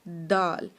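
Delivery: دال with tongue on the front teeth; Arabic daal. Shown as a demonstration. Teacher models دال. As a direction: dental دال like تا. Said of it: "یہ بھی same اسی جگہ سے نکلتا ہے".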